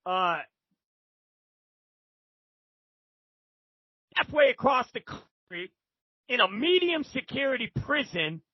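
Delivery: drawn-out Texan drawl with long pauses; mock Southern Texan drawl, phrase by phrase. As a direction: imitate a Texan shot caller spelling it out. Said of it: "with that Southern Texan drawl".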